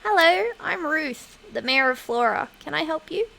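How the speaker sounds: a hint of a friendly town mayor greeting visitors; mayor Ruth voice. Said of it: "I don't know how I'm gonna voice Ruth".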